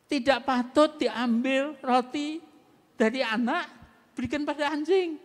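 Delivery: Jesus refusing the woman, slow and heavy; slow, weighty quote. Retold or imitated. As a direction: spell out the harsh words slowly. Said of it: "Itu Tuhan Yesus ngomong".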